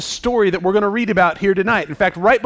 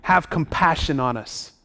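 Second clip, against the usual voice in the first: doubtful. Acted. The father asking Jesus for compassion and help, doubtful. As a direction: plead with fading confidence. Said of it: "Do you hear the doubt in his voice?".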